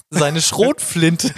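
langsam, durch Lachen gepresst; lachend. Real, not acted. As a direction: vor Lachen kaum rausbringen. Lacht über die Pointe.

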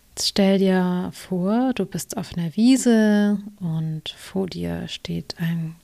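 slow, calm meditation guide voice; guided meditation. Acted. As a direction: ease the listener into relaxation. Coach leads a guided meditation.

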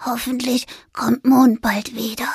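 whispered, lonely little ghost; whimpering whisper. Acted. Lonely ghost in the corner, whispering his hope. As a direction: breathe it out to nobody.

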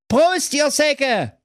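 high, slow boisterous toast; cheeky toast. Acted. Brudi toasting with cola, high slow cheer. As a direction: raise the can and crow it.

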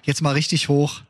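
aufgedrehte Radio-Begrüßung; Moderator-Intro. Acted. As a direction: schwungvoll die Show anmoderieren. (energische Podcast-Anmoderation)

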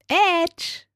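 put-on childish taunt. Shown as a demonstration. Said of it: "inneres Kind".

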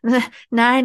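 stammering over the first word; stuttering. Acted. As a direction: trip over the start of nein. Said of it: "die Frau geriet ins Stottern".

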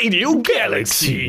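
slow announcer voice; drawn-out radio station ident; radio jingle voice. Acted. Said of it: "Was war das denn für eine Stimme?".

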